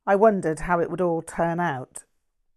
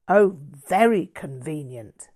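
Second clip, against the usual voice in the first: a sharp, louder snap; snapped; 6 dB louder than usual. Acted. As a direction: bite it off with contempt. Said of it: "Todd snapped".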